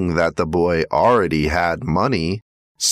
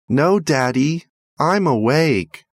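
put-on little boy; 7 semitones higher than usual. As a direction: answer like a small boy in bed. Boy answers father at night.

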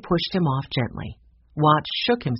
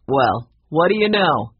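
louder call at usual pitch; projected remark of discovery; 6 dB louder than usual. A narrator's reading. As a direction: call it up to the others, voice raised. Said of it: "he called".

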